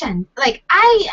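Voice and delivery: ordinary talk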